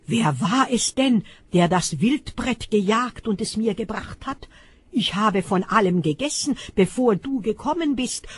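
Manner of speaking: trembling dismay. Acted. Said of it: "Da überkam Isaak ein heftiges Zittern".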